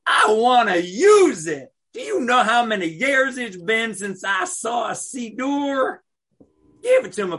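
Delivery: eager shout. Acted. Stranger begs Steve for the siddur, an eager high shout. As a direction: demand it loudly, thrilled and desperate. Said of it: "shouted the stranger".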